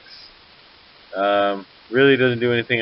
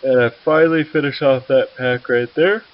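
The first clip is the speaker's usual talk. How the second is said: excited; 6 semitones higher, 7 dB louder than usual. Real, not acted. Triumphant finish of enemy unit.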